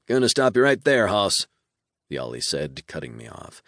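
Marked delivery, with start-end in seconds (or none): 0.1-1.5 higher, louder demon reeling off gossip; a demon savoring every rumor; gleeful demon voice. A narrator's reading. Demon on the phone teasing the hero, gleeful and higher.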